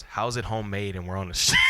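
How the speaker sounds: mock-annoyed yell; irritated cousin shout. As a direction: cousin fed up with a kid on the street, exasperated shout. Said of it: "my cousin goes".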